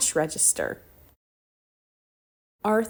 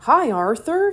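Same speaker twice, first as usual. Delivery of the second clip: calling out; 8 semitones higher, 7 dB louder than usual. Acted. Neighbour calls out greeting.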